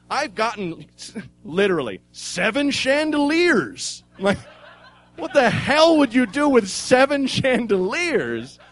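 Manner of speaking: put-on excited old guy. Older guy raving about dumpster diving, high excited. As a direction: gush about dumpster finds.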